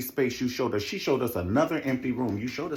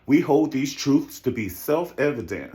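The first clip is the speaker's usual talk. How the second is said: orator voice; 3 semitones higher, 5 dB louder than usual. Retold or imitated. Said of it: "What did Martin Luther King?".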